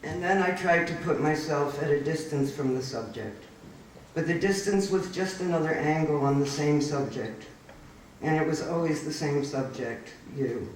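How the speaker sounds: measured, even poem reading voice; poetry reading. Acted. Reads next poem aloud.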